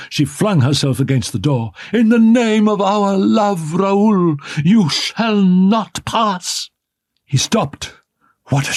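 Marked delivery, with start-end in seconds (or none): 1.9-6.7 high, slow, imploring cry; desperate plea. A narrator's reading. Woman barring the door to her lover, desperate. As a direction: throw yourself against the door and beg.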